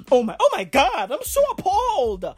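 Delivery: high, fussy appalled voice; mock-offended whiny pearl clutching; mock offended person. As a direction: ham up being appalled. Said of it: "they might go".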